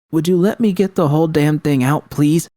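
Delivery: high, exasperated snap; firing back. A narrator's reading. Panam snapping at doubtful V to let her finish. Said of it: "Panam fired back".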